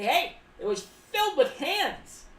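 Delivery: a hint of a traumatized storyteller; telling a wild story. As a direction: spin the tale with mock drama. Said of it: "You could say".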